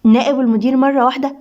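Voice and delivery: mildly astonished, with a smile; smiling surprise. Acted. Shams hearing of her deputy manager post, pleasantly surprised. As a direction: question it in pleased disbelief. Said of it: "شمس بابتسامة ودهشة".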